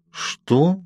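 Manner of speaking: a quick, high, surprised what; startled little question. A narrator's reading. Heroine startled by Edward's remark, high surprised question. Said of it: "удивилась я".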